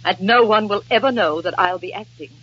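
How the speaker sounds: wounded theatrical vow. Acted. Nora vows to perform despite discouragement, wounded grandeur. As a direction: declaim bravely, fading into heartbreak.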